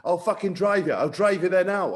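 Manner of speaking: retold angry outburst, mildly heated; upset coach. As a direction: imitate an irate coach, not full volume. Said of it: "Dai Young got upset and he said".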